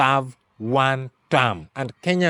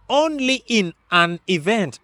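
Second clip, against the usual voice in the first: "only in an event" pitched up, each word set apart; emphatic stress; 4 semitones higher than usual. Real, not acted. Analyst underlining a condition on the votes, emphatic stress. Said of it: "underline the word".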